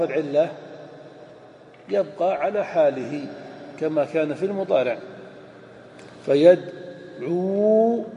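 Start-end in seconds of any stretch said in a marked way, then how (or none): 6.3-8.0 فيدعو drawn out very slowly, syllable by syllable; slow vowel demo. Shown as a demonstration. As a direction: stretch فيدعو slowly to show the ع with damma. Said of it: "العين مضمومة". (نطق فيدعو ببطء شديد لإظهار ضم العين)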